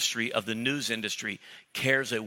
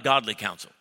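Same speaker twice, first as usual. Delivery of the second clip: call it out loud; 4 semitones lower than usual. Shown as a demonstration. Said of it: "Say it out loud".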